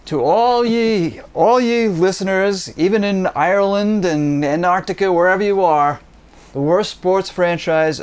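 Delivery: grand proclamation. Acted. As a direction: proclaim it like a herald. Grand announcement of his team.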